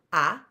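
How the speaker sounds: "A" said as a lone ah; short O sound. Shown as a demonstration. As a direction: give "A" the open ah of bot. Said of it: "the sound of a short O".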